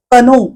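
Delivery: कनो with the K sounded before the N; wrong pronunciation. Shown as a demonstration. A teacher showing the mistaken कनो. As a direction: say कनो with a clear K at the start. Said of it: "कनो असं नाही म्हणत".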